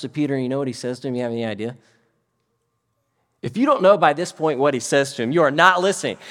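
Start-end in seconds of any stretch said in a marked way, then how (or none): 3.4-6.2 loud, raised playful scolding; emphatic chiding. Real, not acted. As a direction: build loudly towards the punchline. Chiding the congregation before punchline.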